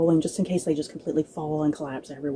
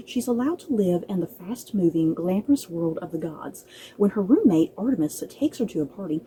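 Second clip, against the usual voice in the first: blurb read aloud. Acted. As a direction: read the blurb like a gentle book teaser. Reads the back-cover blurb.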